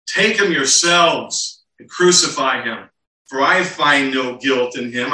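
exasperated Pilate. Acted. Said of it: "in his frustration".

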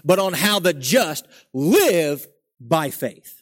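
slow, leaning on "how" and "live"; stress on how. Shown as a demonstration. Preacher driving home the Hebrews emphasis, slowed. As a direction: spell out the point slowly. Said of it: "The emphasis here in the book of Hebrews".

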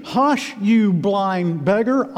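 high, slow, emphatic scolding; scornful rebuke. Acted. Crowd hushing blind Bartimaeus, scolding. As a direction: shut the beggar up.

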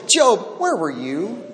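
God's challenge to Job. Retold or imitated. God questioning Job.

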